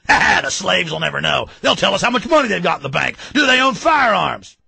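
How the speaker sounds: mocking government lawyers. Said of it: "they sit around laughing".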